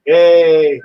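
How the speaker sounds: bright, loud little cheer; excited cheer. Real, not acted. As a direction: cheer it out happily. Cheering for his favorite YouTuber.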